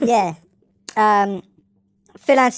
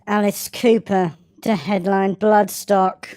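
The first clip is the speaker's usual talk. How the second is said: slower, grave mock newsreader; milk the headline like a serious anchor; more Michael Buerk; slower than usual. Shown as a demonstration. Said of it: "Michael Beck it up more".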